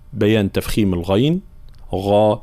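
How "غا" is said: غا held slow, with a full, heavy غ; heavy ghain. Shown as a demonstration. Teacher demonstrates a heavy غ sound. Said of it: "هكذا".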